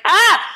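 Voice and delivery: sudden high yelp of pain; a startled shriek at the blinding light; retold yelp of pain. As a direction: cry out as the light hits your eyes. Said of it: "I was like".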